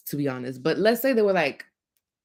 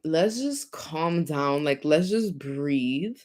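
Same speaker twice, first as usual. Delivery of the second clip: slow calming; 2 semitones lower, slower than usual. Retold or imitated. Calming each other before a fight.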